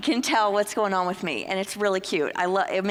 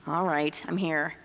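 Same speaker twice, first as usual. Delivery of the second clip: reluctant; 5 semitones lower than usual. Retold or imitated. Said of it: "you're dragging yourself to the spot".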